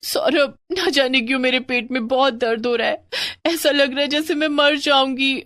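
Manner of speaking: fearful wife in pain; distressed in pain. Acted. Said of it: "चिल्लाने लगती है".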